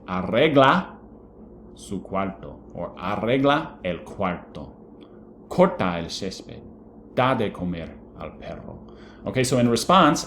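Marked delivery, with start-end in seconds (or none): 0.1-8.9 a hint of a bossy mom; parent giving commands. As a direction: tell the kid to clean the room. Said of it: "telling your son or your daughter".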